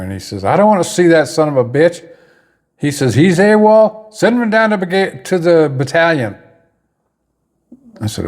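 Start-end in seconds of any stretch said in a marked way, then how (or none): 0.4-2.1 higher-pitched mock angry outburst; retold yelling. Commander overheard in the other room, retold yelling. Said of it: "I can hear somebody yelling in there". 3.1-6.4 retold yelling. Commander overheard ordering private sent away, retold yelling. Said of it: "I can hear somebody yelling in there".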